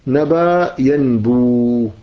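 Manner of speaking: نبى ينبو slow, as nabaa yanbuu; long root vowels. Shown as a demonstration. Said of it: "فالواو هي الأصل".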